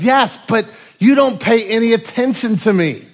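hurt wife. Retold or imitated. Wife answers her husband.

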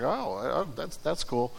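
hushed, hesitant acknowledgement; low, quiet, halting reply; subdued reaction. Acted. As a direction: react very softly, a little lost for words. Friend reacts to news of windfall.

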